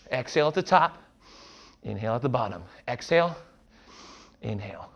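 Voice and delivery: breathing hard mid-workout; winded, pushing cues out between breaths. Real, not acted. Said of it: "I apologize for my breathing".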